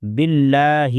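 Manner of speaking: باللہ with a light, thin lam. Shown as a demonstration. Teacher showing students the thin lam, carefully. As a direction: keep the lam of باللہ light, not heavy. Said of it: "باللہ کا لام باریک ہوگا".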